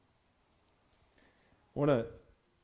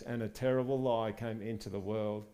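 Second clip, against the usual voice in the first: storybook read aloud, gentle and even; reading to children; 3 dB quieter than usual. Acted. Preacher reads the church a children's Bible story, storybook style. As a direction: read it like a children's bedtime book.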